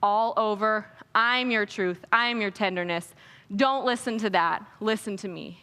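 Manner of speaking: calm a frightened friend in the storm; gentle God voice. Retold or imitated. God reassuring someone in life's storm, low and gentle. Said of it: "he says".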